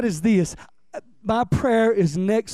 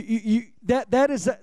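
normal talking voice

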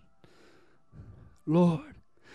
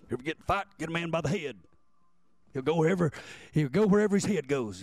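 lightly voiced dad; 6 semitones lower, faster than usual. Dad's advice quoted, lower voice.

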